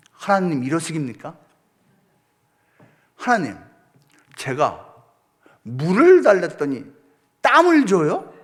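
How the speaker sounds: mock indignant grumble; grumbling prayer. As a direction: sulk and gripe at heaven while hauling gear. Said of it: "이렇게 막 궁시렁거리면서".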